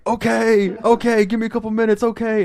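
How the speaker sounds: high, strained character voice; mock groggy agreement. Imitating friend answering a drunk call.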